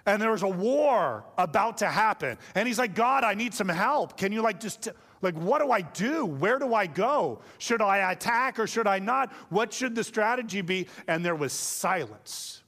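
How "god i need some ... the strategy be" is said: pitched-up, mock-desperate pleading; desperate plea. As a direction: plead urgently, a touch hammed-up. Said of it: "he got desperate".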